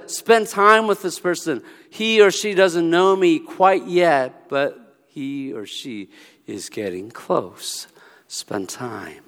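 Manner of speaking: gentle voice of the Lord. Acted. The Lord urges the believer to spend time, soft and slow. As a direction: speak slowly and softly as the Lord guiding.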